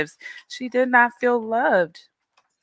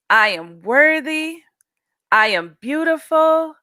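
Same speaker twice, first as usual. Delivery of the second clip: put-on teacher leading kids to repeat; affirmation for kids. Shown as a demonstration. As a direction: lead the children line by line. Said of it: "repeat after me".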